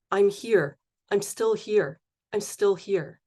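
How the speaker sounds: measured poem recital with deliberate pauses; poetry reading. Acted. Poet reads a whale poem to the audience, measured recital. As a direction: read each phrase as a separate line of verse.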